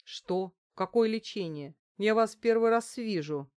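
громкий возмущённый возглас; выкрикни с неприязнью, растущей к концу; восклицание с неприязнью. A narrator's reading. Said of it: "воскликнул с неприязнью Ефим". (Ефим с неприязнью выкрикивает незнакомке)

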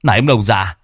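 high, stammering panic; young master Tẩy panicking over the money; panicked stammer. Acted.

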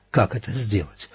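plain reading voice

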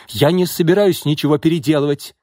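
high, loud flat refusal; shouting. A narrator's reading. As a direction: shout that you won't budge. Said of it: "крикнул архитектор". (возмущённо крикнуть)

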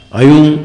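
अयुण as a single run-on word; unclear merged vowels. Shown as a demonstration. Teacher showing why listeners cannot tell, अयुण run together. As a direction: slur the separate vowels into अयुण. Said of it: "पता नहीं चलता".

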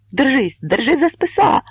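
shouted warning, high and loud; крик. A narrator's reading. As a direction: yell it to a man sinking in the bog. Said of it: "закричав Богун".

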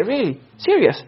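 rising, doubting double-take; surprised disbelief. Retold or imitated. Teacher voices listener doubting snow news, mildly incredulous. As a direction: react like you can't quite buy it.

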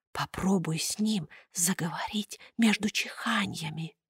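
furtive whisper. A narrator's reading. Pierrot whispers to Buratino, secret whisper. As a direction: breathe it secretly under the noise. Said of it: "украдкой шепнул".

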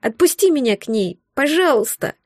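put-on tearful child's plea; pleading child. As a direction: beg like a crying little boy. Child begging to go to mother.

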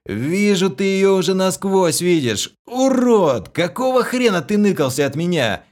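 high, loud rough ribbing; loud scolding. A narrator's reading. Vlas loudly scolds his old friend for hiding. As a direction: berate him boisterously, half joking.

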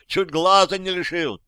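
high angry shout; гневный крик. A narrator's reading. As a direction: keep shouting the grievance. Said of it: "заорал тот".

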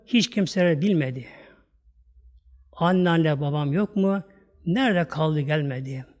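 yavaş, duygulu şiir okuyuşu; şiiri içli içli oku; duygulu şiir okuma. Acted. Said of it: "Şiir okuyayım ben de size". (vaiz dinleyicilere duygulu şiir okuyor)

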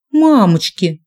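frightened little squeal; slightly squealy cry. A narrator's reading. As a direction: yelp it in sudden fright. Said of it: "получилось слегка визгливым".

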